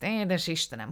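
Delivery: confiding then scandalized, voiced with relish; animated little dealer. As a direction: talk up the dead man's vices with gusto. Ganjin's long account of Jeffrey. (Ganjin élvezettel sorolja Jeffrey bűneit)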